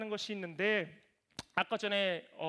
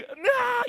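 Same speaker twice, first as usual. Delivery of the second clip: sudden high cry of pain as if bitten; retold yelp of pain, loud and high; 14 semitones higher, 10 dB louder, much slower than usual. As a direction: yelp like teeth just sank in. Daughter bites his neck.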